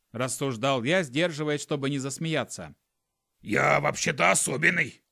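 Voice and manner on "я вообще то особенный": indignant skunk, a bit louder; hurt little skunk voice; emotional cry. Acted. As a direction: protest your worth. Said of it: "эмоционально вскрикнул Пук".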